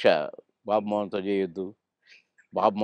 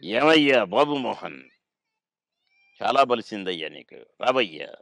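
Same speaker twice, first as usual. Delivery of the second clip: Mohan Babu impression. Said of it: "ఎలా అంటారు sir ఆయన?".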